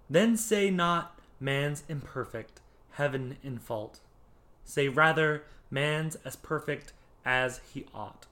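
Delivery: measured verse reading, pausing after each phrase; poetry reading. Shown as a demonstration. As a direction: recite the couplet deliberately, phrase by phrase. Reads couplet from Pope aloud.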